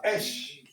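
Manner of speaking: Esh, a single short syllable; corrected pronunciation. Shown as a demonstration. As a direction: say Esh, not Élèche. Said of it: "Oh, tu as dit Élèche".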